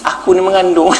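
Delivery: mock-serious husband, laughing; half-laughing admission; laughing confession. Husband tells wife he is pregnant, laughing.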